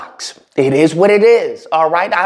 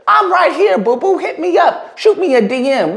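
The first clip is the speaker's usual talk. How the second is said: laughing flirt; 8 semitones higher than usual. Real, not acted.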